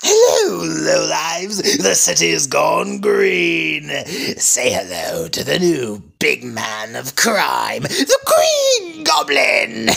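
booming villain announcement; triumphant shout. Acted. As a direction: proclaim it to the whole city. Villain announces himself to crooks.

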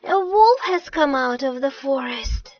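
moderately loud alarm call; alarmed shout. Acted. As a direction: call out the danger loudly. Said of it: "he shouted".

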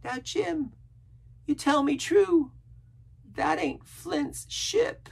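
high, slow, drawn-out warning; threatening castaway. A narrator's reading. Castaway demanding the truth from Jim, threatening. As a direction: press the question slowly and intensely. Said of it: "raised a forefinger threateningly".

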